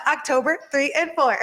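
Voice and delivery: light, playful copy of her catchphrase; adorable imitation. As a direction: lightly mimic a cute event-date slogan. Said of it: "so adorable how she says".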